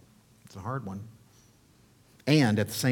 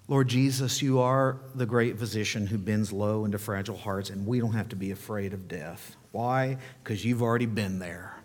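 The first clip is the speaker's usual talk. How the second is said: subdued, slightly lowered praying voice; closing prayer; 3 semitones lower than usual. Real, not acted. Pastor praying to Jesus for the congregation, subdued prayer.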